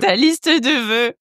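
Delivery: very slow, exaggerated mock announcement; hammed-up horrible voice. Host replays the wish-list line in hammed-up horrible voice. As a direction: drag out each word in a silly put-on voice. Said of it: "J'ai pris une voix horrible".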